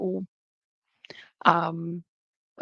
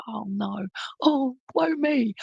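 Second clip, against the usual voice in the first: jesting; 3 semitones higher, slower than usual. Retold or imitated. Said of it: "um, with jest".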